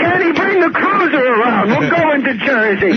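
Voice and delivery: mock tough guy order. Mock boss ordering driver.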